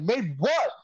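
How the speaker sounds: high, rising mock bafflement; retold high-pitched confusion; baffled. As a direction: act out a puzzled, incredulous question. Acted confused reply on the call.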